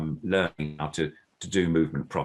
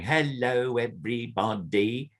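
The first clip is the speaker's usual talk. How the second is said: a lightly raised, busy hello; too much movement; 5 semitones higher, slower than usual. Shown as a demonstration. Puppeteer demonstrating the overdone greeting to a learner. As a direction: show the wrong, fussy way. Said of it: "I'm not going".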